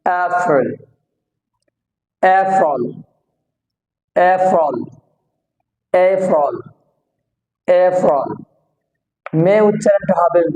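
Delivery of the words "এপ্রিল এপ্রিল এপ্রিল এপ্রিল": এপ্রিল opened with an "ay" vowel; long A sound. Shown as a demonstration. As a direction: start এপ্রিল on "ay", falling at the end. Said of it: "এই উচ্চারণটা হবে হচ্ছে এই".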